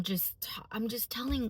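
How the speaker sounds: soft whisper while recalling tears. Real, not acted. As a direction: hush the words, near tears. Recalls crying in the car.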